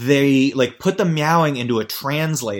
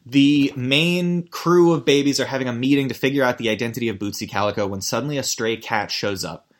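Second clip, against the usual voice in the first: ordinary talk, nothing marked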